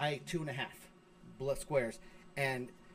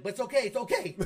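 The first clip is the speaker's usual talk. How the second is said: higher, louder mock reassurance; hasty reassurance; 6 semitones higher, 5 dB louder than usual. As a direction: imitate an alarmed son trying to reassure. Son's hasty reassurance, retold.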